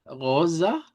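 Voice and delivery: "rosa" with a centralized final A; Portuguese rosa. Shown as a demonstration. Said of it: "Por eso decimos".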